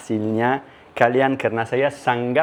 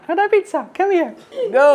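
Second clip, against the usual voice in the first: calling out; faster than usual. Real, not acted. Calling kids to the pizza.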